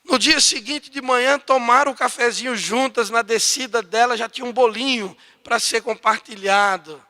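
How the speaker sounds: usual speaking voice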